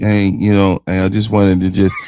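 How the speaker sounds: flat, low-energy delivery. Showing a listener how not to talk in an exciting environment, low-energy flat delivery. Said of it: "talk like".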